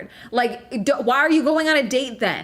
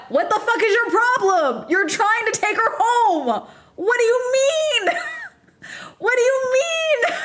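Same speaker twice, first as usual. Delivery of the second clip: high, climbing disbelieving cry; incredulous outburst; 12 semitones higher than usual. Real, not acted. Reacting to a man questioning a girl he's taking home, incredulous shriek. Outraged at the retold date.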